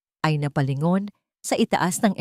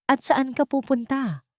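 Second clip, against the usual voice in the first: sharp demand; 8 semitones higher than usual. Acted. Mother-in-law confronts departing wife.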